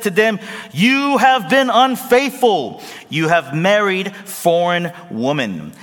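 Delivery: booming priestly rebuke; Ezra's rebuke. Acted. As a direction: proclaim it like a prophet scolding. Ezra rebukes the people.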